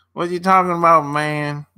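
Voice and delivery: laughing, quick put-on Midwest accent; mock Midwest drawl. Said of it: "That's how they talk in the Midwest".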